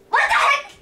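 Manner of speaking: loud, high outraged surprise; shocked exclamation. Real, not acted. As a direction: react in disbelief. Finds sister in banned spot.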